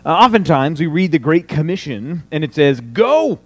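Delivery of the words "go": GO! punched high and loud; shouted Go as the whole point; wrong emphasis on go. Shown as a demonstration. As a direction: bark "Go!" as the main command. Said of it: "the emphasis is put in the wrong place".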